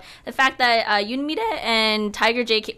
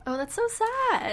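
laughing; 11 semitones higher, 5 dB quieter, slower than usual. Real, not acted. Mock sympathy, laughing.

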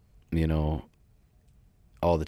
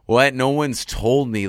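higher, slower, a retold "what?" of disbelief; 7 semitones higher, 7 dB louder, slower than usual. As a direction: act out being caught off guard, drawn out. Shocked at learning he has a deep voice.

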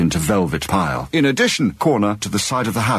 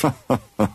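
short laugh; 3 semitones higher than usual. Acted. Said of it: "with a laugh".

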